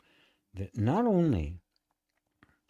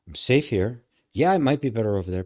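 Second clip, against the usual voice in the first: nervous system voice; 6 dB louder than usual. Pretend.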